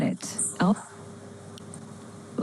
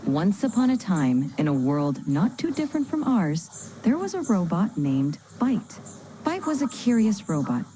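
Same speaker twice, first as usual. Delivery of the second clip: bedtime story. Acted. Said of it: "tell him a bedtime story".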